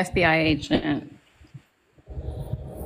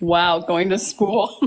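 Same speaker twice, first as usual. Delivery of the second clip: slow, flat deadpan echo; 3 semitones lower, slower than usual. Retold or imitated. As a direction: drag it out, dead serious. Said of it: "you have the most deadpan humor".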